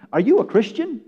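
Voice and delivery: asked expectantly, light rise at the end of "Christian"; "Are you a Christian?" as if sure of a yes; assuming question. Retold or imitated. Church member asking a stranger about faith, expectant question. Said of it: "this is how, what he said and how he said it".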